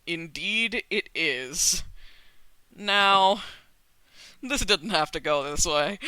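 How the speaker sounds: low, slow villain monologue; slow, low and menacing, savoring it; slow theatrical villain menace. Acted. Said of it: "my villain monologue".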